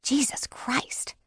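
slow, whispered curse; drawn-out exasperation under the breath; exasperated whisper. A narrator's reading. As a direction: whisper it slowly in disbelief. Exasperated thought while waiting.

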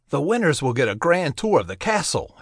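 talking through food; words round a mouthful; mouth full. Acted. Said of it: "talking with his mouth full".

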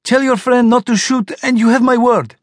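a monster insisting it is harmless; strange worm voice. A narrator's reading. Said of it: "the death worm replied".

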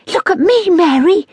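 high, bright call of delight; little boy calling to his sister from the ceiling; excited cry. A narrator's reading. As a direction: call out thrilled by what you can do. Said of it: "he cried excitedly".

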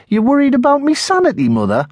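high, drooling put-on loony voice; boy hamming up a lunatic to mock his mum; mock madman. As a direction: pull a face and squeal like a madman to tease mother. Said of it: "twisted me mouth and stuck me tongue out and drooled".

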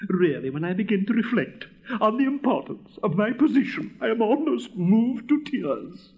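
grand indignation swelling into self-pity; pompous, self-absorbed rocket. Acted. Rocket demanding everyone think only of him, pompous. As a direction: lecture them with lofty self-importance.

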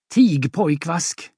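slow stern put-down; mother silencing her son, slow; stern rebuke. Acted. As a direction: cut him off firmly.

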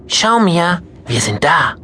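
high, cheerful announcement; happy grandma. Acted. Grandma telling Mia they have arrived, cheerful. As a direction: point it out gladly.

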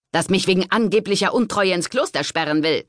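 cutting. A narrator's reading. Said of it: "Genovevas Stimme klang schneidend".

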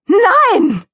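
high, explosive shout; very loud no. Acted. Mickey Kuchen refusing dessert to Donald Rabbit, shouting. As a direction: blast out a refusal. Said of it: "hatte so laut „Nein“ gerufen".

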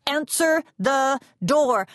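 slow, firm insistence; stern repeat. A narrator's reading. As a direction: lean on each word, losing patience. Mama insisting firmly.

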